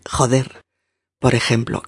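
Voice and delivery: normal talking voice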